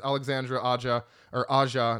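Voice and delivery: "Alexandre Aja" in plain English sounds; name without French accent. Shown as a demonstration. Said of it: "not saying it with the French accent".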